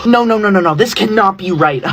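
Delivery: loud, hammed-up panic; panicked disbelief. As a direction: refuse to believe a disastrous grade. Horrified by the grade.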